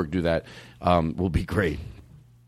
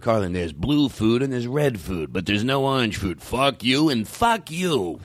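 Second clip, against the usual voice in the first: Colin Quinn impression; slower than usual. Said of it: "I can do".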